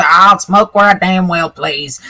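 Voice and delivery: lightly voiced rough old man, slow; slow, defiant old-timer, lightly played.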